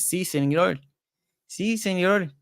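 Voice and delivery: lightly put-on Mexican accent, rising on señor; playful Mexican Spanish accent on si señor. Streamer jokingly answers a chat in a light Mexican accent. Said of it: "That was my Mexican accent".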